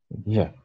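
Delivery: "The" with a buzzing voiced th. Shown as a demonstration. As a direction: make "The" vibrate on the th. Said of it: "on a une vibration". ("The" avec le th voisé qui vibre)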